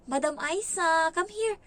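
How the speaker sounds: high, slow teasing call; mocking. Employer taunting the maid, calling her over. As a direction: drag out the name to taunt her. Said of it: "nangaasar daw".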